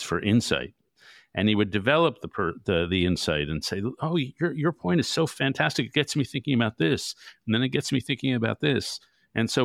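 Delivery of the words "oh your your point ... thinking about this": gushing praise. Retold or imitated. Balfour gushing praise, retold.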